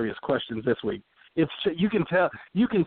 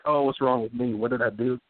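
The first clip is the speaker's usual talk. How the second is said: self-doubting parent; 3 semitones lower than usual. Retold or imitated. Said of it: "I'm like".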